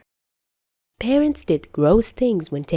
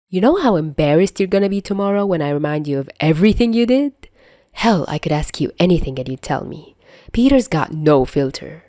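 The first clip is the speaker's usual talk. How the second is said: teasing Tony; faster than usual. Acted. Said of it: "Tony says".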